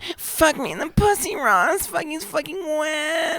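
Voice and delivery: high, breathy mock woman's voice; bad falsetto girl voice; female voice. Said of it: "that's a terrible female voice".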